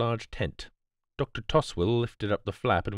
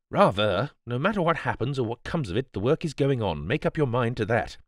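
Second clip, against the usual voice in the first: put-on higher-pitched, emphatic young gentleman; determined young baronet; 5 semitones higher than usual. Young baronet vows the work goes on, emphatic. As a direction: insist hotly that nothing will stop it.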